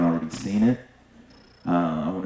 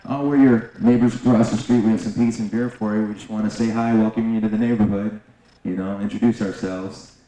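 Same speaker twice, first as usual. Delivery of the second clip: cheery, higher and louder neighborly hello; friendly greeting; 3 semitones higher, 3 dB louder than usual. Retold or imitated. Neighbors at the door offering pizza, cheery greeting. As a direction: sound eager to meet the neighbors.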